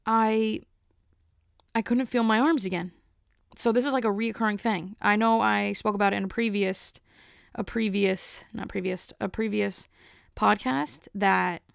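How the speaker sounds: breathless, short of air; out of breath. Real, not acted. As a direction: talk while winded. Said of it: "why am I out of breath just talking right now".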